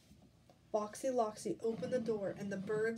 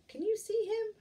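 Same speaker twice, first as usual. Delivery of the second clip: excited question; 11 semitones higher, 6 dB louder than usual. Real, not acted. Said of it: "asks children excitedly".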